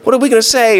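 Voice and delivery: high, playful voice of Mary and Martha plotting together; a pretend huddle before Jesus arrives; sisters scheming. Mary and Martha plan their words, playfully scheming. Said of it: "it's almost like they planned it".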